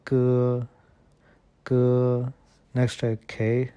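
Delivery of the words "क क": क said as an unaspirated k; short hard क; क, the Chinese g sound. Shown as a demonstration. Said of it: "इसको हम बोलेंगे".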